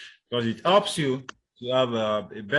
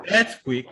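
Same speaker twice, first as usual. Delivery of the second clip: earthquake with EARTH punched; stress on first word; 2 semitones higher, 6 dB louder than usual. Shown as a demonstration. Teacher listing compounds, earthquake stressed on EARTH. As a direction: hit EARTH, let quake drop. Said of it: "on the first syllable".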